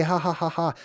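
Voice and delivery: spoken, unamused ha-ha-ha; mock joking laugh. Streamer mocking how sarcastic people joke, fake laugh. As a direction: imitate a jokey laugh without really laughing. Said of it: "in this joking way".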